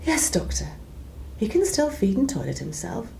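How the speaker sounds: mum's telephone voice answering the consultant, lightly done; posh telephone voice. Retold or imitated. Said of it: "puts on her best telephone voice".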